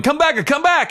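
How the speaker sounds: high-pitched yell, imitating the pursuer; retold frantic calling out. Man calls after fleeing storyteller, retold high frantic shout. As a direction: call after someone escaping, voice leaping up high. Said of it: "he's, like, go-, going".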